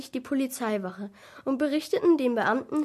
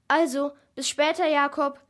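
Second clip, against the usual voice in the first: raised, higher goodbye call; 4 semitones higher, 6 dB louder than usual. A narrator's reading. Boy to Jakob on the way out, calling out. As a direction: call a quick goodbye while leaving. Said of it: "rief ich noch kurz".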